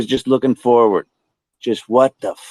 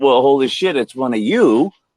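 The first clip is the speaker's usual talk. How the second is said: mocking, sarcastic echo thrown back. Retelling own reply to a strange creature: imitating own sarcastic reply. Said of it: "since I'm just a sarcastic prick".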